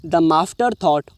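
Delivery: very slow, deliberate words; slow reading aloud. Shown as a demonstration. Teacher reading the next line slowly to students. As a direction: read it out carefully.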